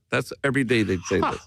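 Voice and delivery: ordinary talk, nothing marked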